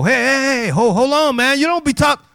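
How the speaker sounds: imitating high, loud objections; shouted intervention. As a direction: shout over him to shut him down. Other guys jump in to object.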